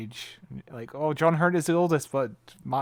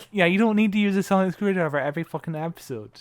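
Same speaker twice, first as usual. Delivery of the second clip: louder, higher mock exasperation; fed-up groan about overused gadgets, raised; exasperated rant; 5 semitones higher, 5 dB louder, faster than usual. Podcaster griping about sonic screwdrivers, exasperated and louder. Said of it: "just being like".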